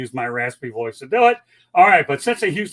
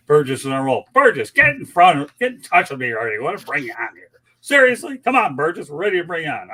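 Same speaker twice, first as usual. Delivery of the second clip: excited call-out; 6 dB louder than usual. Real, not acted. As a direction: shout him into joining the show, half-joking. Host calling out to a viewer.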